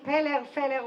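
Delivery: Peller, Feller read flatly like a name off a list; Israeli mispronunciation. Shown as a demonstration. Mimicking callers reading her name. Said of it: "they just read my name".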